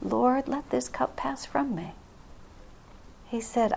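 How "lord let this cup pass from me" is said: delicate plea. Retold or imitated. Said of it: "he did it more delicately".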